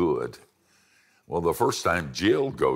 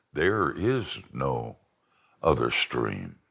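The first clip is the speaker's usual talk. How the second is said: slow, lower, lightly voiced lion; lion's answer; 5 semitones lower, slower than usual. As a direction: let the lion settle it slowly and low.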